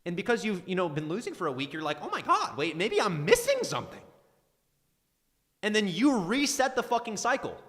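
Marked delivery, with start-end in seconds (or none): 2.0-4.0 high-pitched mock panic; mock alarmed realization. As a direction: play a trader suddenly doubting, pitched way up. Voicing a losing trader's doubt.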